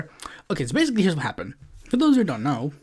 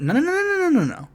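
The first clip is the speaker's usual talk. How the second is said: emphatic no; 12 semitones higher, much faster than usual. Real, not acted. Firm rebuttal to critics.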